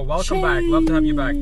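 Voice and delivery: high, loud cheerful welcome; excited welcome. Real, not acted. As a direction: greet him like a long-lost friend. Greeting returning friend on stream.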